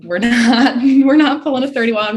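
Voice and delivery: high, loud refusal with a laugh; adamant self-talk. Retold or imitated. Swimmer to herself in the last fifty, adamant. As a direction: dig in your heels, voice jumping up.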